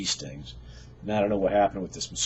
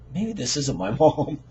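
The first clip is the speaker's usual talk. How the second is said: laughing in disbelief; 6 semitones higher, 5 dB louder, slower than usual. Retold or imitated. Realizing he called a stranger.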